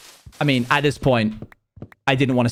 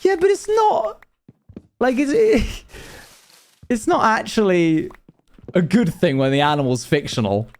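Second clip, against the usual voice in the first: high whiny protest; 7 semitones higher than usual. Retold or imitated. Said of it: "And I'm like".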